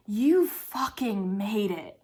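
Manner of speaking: drawn-out, weighty stress through "You fucking made it"; slow down and lean on each word of "You fucking made it"; emphatic. Real, not acted. Telling herself she made it through college, "You fucking made it" slow and emphatic. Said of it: "needs that kind of emphasis".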